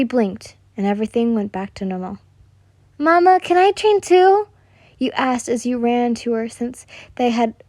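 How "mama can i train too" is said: put-on high, loud begging child voice; a small girl pleading eagerly; eager little girl. Little girl begs mother.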